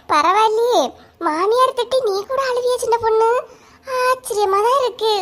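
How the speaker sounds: gleeful mock astonishment; laughing tease. Teasing the weeping woman.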